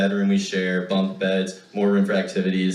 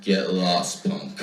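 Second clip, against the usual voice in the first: put-on tough older brother; 5 semitones lower, slower than usual. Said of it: "he would turn around and say".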